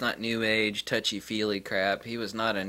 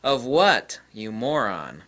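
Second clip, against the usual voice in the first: louder, mocking demand at the questioner; scornful shout; 5 dB louder, much slower than usual. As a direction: bark the question like you're fed up with a fool. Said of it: "I say".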